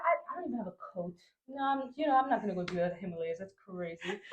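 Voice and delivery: fast retold refusal; rapid protest. Refusing the Himalaya trek, fast flustered excuses. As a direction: rattle off excuses quickly.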